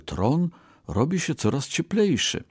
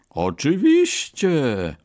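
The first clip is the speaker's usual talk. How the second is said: higher, slow squeak; squeaky fox; 6 semitones higher, 4 dB louder, slower than usual. A narrator's reading. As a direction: squeak it like an eager little fox. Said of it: "pisnął lis".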